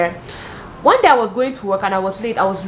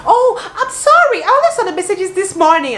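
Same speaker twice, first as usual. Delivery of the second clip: higher, louder, slowed, laughing through a fake sorry; laughing fake apology; 11 semitones higher, 6 dB louder than usual. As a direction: apologize while barely holding back laughter.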